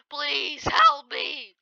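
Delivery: slow, high, stretched cry for help; drawn-out plea. Real, not acted. Player begging mid-fight, slow stretched wail. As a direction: stretch every word like slow motion.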